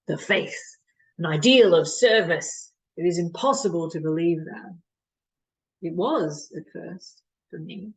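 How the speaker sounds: performed dramatic monologue with measured pauses; Doctor de Koven. Acted. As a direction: argue the case to a listener, pausing between points. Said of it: "performing a monologue of Doctor de Koven".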